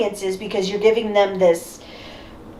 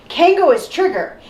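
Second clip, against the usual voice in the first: higher-pitched declaration, falling at the end; character announcement; 5 semitones higher than usual. Acted. Critic mimicking a character's obvious statement, declaring it. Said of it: "when you have a character saying".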